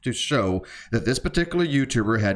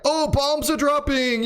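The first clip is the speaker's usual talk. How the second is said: mock sensational YouTuber; slower than usual. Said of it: "I'm like".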